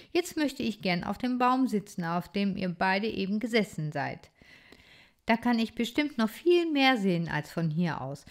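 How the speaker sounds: put-on a curious young critter speaking up; lively little hero. Bodo voiced by reader.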